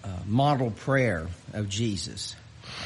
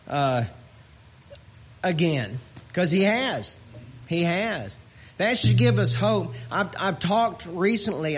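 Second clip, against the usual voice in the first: impassioned, louder preaching; 6 semitones higher, 4 dB louder than usual. Acted. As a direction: lift the congregation with hope. Preaching at full force.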